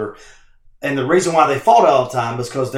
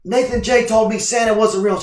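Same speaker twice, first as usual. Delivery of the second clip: put-on upset kid; 6 semitones higher than usual. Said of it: "I go".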